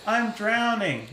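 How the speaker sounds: put-on creepy child voice. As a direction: breathe it out like a ghost child. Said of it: "anything a kid would say".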